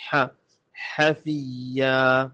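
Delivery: حفیا with a strong pharyngeal ḥ; throat-pressed ha. Shown as a demonstration. Teacher drills the letter for learners, forceful throaty ḥ in حفیا. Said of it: "حلق پہ زور دے کے".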